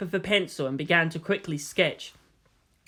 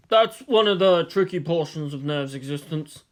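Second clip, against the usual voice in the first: rotund director. Acted. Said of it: "replied a rotund man".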